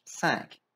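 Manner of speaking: Cinq placed low, nasal sank. Shown as a demonstration. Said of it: "Tá bem pra baixo".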